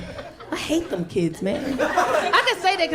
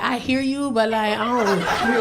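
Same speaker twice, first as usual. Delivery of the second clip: lightly mimicked stretched-out talk; extra daughter. Daughter brushing off a parent's no, mildly extra. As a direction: draw out the last words, mocking her. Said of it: "she talks so extra".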